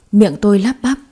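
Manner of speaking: ordinary delivery, nothing marked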